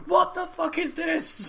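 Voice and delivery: very high, slow mock disbelief; hammed-up incredulous cry, stretched out; Michael's baffled reaction. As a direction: drag it out in squeaky bewilderment. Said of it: "Michael, you will literally go".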